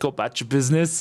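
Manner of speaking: put-on bad English accent. Voicing a character who tries to copy another's accent: bad English accent. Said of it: "he's trying to do my accent".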